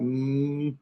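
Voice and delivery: sustained "mm" hum; mem sound. Shown as a demonstration. Teacher demonstrating the letter mem, humming its sound. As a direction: hold "mm" with closed lips. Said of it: "this is a mem sound".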